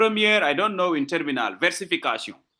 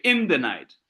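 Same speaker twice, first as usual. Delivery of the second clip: "night" carries the weight, first two words light; don't insist until "night"; stress on NIGHT; 6 semitones lower than usual. Shown as a demonstration. Teacher correcting where to insist, stress on "night". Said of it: "insist on night".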